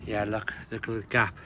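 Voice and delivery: breathless from straining; effort grunt. Real, not acted. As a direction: talk while catching breath. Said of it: "Sorry for all the grunting and the out of breath".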